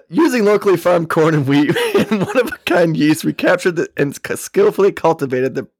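put-on Texas accent, stumbling through the reading; retry the label as a Texan. Host restarts flubbed bourbon label, in Texas accent. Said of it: "read it in a Texas accent".

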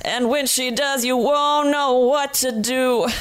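slow, dramatic trailer voice; booming movie trailer read; dramatic announcer. Pretend. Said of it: "You having fun?".

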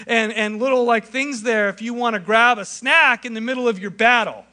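a distant God tossing out a snack, hammed-up; preacher mocking a careless God, high and breezy; mock casual God. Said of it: "he's not saying".

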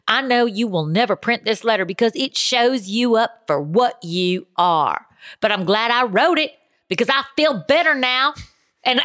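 Southern accent. Shown as a demonstration. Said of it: "I gotta read this with a Southern accent".

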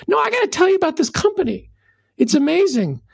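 hammed-up pushy enthusiast who won't drop it; refusing to be brushed off, pitch climbing; insistent fired-up customer. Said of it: "is all fired up".

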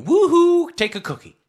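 very high, loud sarcastic whoop; mock cheer. Sarcastic cheer for vaccinated people.

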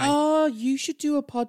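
high, loud Yorkshire enthusiasm; Brenda. Acted. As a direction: butt in with broad Yorkshire gushing. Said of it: "she has such a strong Yorkshire accent".

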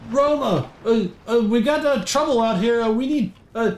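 high, halting call for help; flustered guard. Acted. Guard calls Roma for help, flustered and halting. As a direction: stammer nervously, pitched well up.

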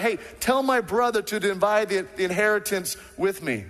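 a hint of a rude heckler; pushy interrupter. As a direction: blurt it out over the preacher. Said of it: "Someone's like".

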